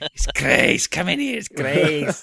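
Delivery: badly faked Scouse accent, calling someone inside; terrible Scouse accent. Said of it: "this terrible Scouse accent".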